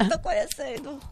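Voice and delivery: falando entre risos; rindo. Real, not acted. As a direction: deixe o riso escapar na fala. Brincadeira sobre quem quer conhecer.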